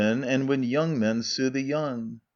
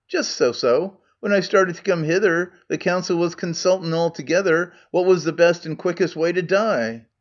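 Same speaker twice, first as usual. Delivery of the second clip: Scots Megarian; 3 semitones higher than usual. Acted. Megarian role in Scots dialect.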